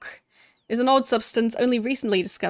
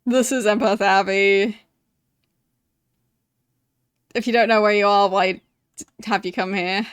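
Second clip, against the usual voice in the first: a loose rural English accent, mock-gruff; graveyard keeper's accent; 3 semitones lower, 6 dB louder than usual. Player voicing the graveyard keeper's lines in his accent. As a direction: put on the old caretaker's accent. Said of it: "me saying it in his accent?".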